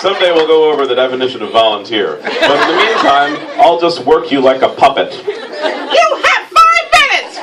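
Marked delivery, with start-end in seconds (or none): 5.1-7.4 shouted very high and slow; bossy. Shown as a demonstration. Host showing Will the bossy way to read the line. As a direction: boom it like a bossy boss. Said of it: "read that last sentence as bossily as possible".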